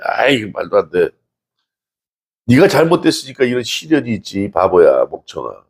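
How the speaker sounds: lightly mock the friends berating Job; scornful friend. Friends scolding suffering Job. (욥을 꾸짖는 친구들을 흉내 내며 낮고 느리게 비웃는 말투)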